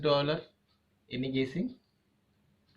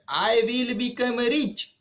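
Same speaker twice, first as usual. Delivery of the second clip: a lightly acted high vow; determined; 8 semitones higher than usual. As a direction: repeat her promise with resolve. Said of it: "She said".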